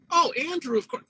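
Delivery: mock-sweet gushing praise; doting parents. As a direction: coo it like a doting mother.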